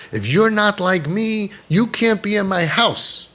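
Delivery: high, drawn-out parody of a rejecting parent; mock intolerance. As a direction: lay down the rule in a mocking high voice.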